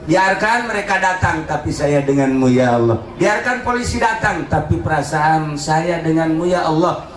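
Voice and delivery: pleading prayer in rising and falling waves; impassioned preaching. Acted. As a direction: preach it as a plea to God. Preacher pleads to God before congregation. (ceramah doa yang memohon)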